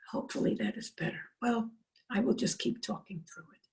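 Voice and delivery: strained, faltering voice, talking through it; voice trouble. Real, not acted. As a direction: push on through a failing voice. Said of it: "there is something wrong with the voice".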